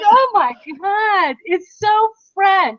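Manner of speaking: drawn-out, high mock astonishment; mock amazed. Telling a friend how she reacted, slow and high mock astonishment. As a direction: gush it slowly, playfully scandalized. Retelling her reply to husband's joke.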